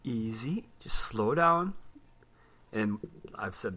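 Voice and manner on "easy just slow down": soft unvoiced whisper to himself; whispered self-talk. Telling himself to slow down on vacation, whispered. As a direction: whisper it like calming yourself down.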